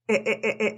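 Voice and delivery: short E sounds tapped out one by one; repeated E vowel. Shown as a demonstration. Teacher drilling the vowel. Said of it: "es una E".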